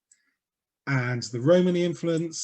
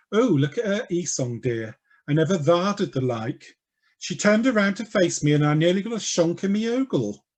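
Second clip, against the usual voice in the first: camp gossip, retaken; 4 semitones higher than usual. Shown as a demonstration. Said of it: "let me start that again".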